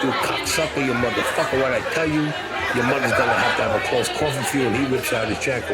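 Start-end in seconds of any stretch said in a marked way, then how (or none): 0.0-4.7 retold furious outburst. Enraged man confronts narrator in bar.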